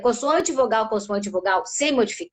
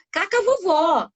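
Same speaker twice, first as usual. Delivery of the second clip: higher, lightly voiced toddler; child's intonation; 6 semitones higher, slower than usual. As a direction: mimic a small child's simplified speech. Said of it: "Olha a entonação que eu fiz".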